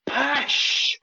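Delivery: the word Pish said the Scottish way with a puffed p, a light Scottish accent. Shown as a demonstration. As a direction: drop a single Scottish Pish. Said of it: "In my Scottish accent".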